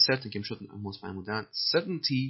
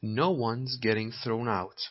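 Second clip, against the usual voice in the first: slow repeat; much slower than usual. Shown as a demonstration. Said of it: "slow model reading".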